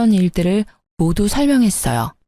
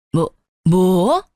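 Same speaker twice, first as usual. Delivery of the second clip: slow, stammered question, rising steeply; stunned stammer; 2 semitones lower, much slower than usual. A narrator's reading. Mother-in-law hears her things were pawned, stunned stammer. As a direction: stammer it out in disbelief, drawing it upward.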